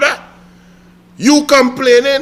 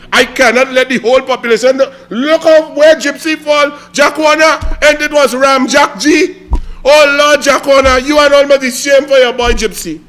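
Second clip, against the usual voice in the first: louder, higher, fast rant; exasperated rant; 3 semitones higher, 3 dB louder than usual. Real, not acted. Railing at Jack Warner over Gypsy, louder exasperation. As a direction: rant in disbelief.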